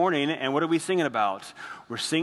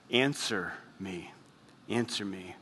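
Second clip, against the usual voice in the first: desperate plea; 6 semitones lower, 7 dB quieter than usual. Acted. David's desperate plea quoted.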